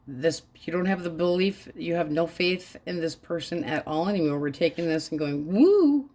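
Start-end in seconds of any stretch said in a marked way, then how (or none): 5.4-6.1 loud high whoop of relief; mock cheer. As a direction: whoop like you are finally free. Celebrating the breakup.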